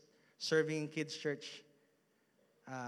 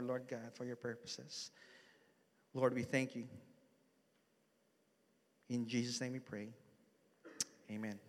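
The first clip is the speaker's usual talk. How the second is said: prayer. Acted. Pastor prays before the sermon.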